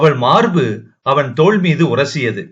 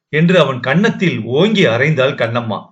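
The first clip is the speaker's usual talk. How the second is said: plain reading voice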